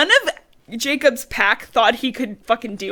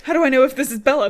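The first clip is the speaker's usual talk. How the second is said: loud, fast, higher joking outburst; mock suspicion; 5 semitones higher, 7 dB louder, much faster than usual. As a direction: blurt it out as a comic wolf. Joke voice for Jacob sniffing.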